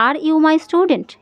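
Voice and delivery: "Are you my student?" said very slowly, each word apart; slow teaching read. Shown as a demonstration. Teacher reading the model question very slowly to the class. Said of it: "এখানে আমি বলে দিচ্ছি".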